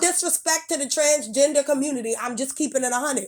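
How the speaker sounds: sharp scolding rant; angry rant. Real, not acted. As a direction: tell them off, fed up. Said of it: "That's why I spoke angrily".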